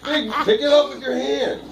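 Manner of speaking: laughing. Real, not acted. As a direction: squeal with laughter while urging. Cheering through laughter.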